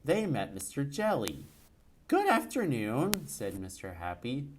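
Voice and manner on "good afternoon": character voice. Acted. Character greeting in a story.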